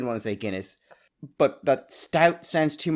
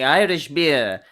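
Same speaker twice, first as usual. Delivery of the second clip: slow, louder mock presenter; imitating Raymond; 7 dB louder, much slower than usual. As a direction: drag out the words like the old host. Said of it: "your lovely impression there of him saying Irish beer".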